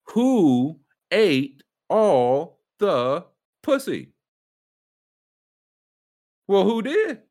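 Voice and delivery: a high, loud, stretched-out mock question; hammed-up question. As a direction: draw it out like a dramatic riddle. Reading a shirt as a joke.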